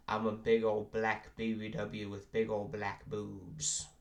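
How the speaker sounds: put-on sassy big girl voice. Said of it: "those three voices".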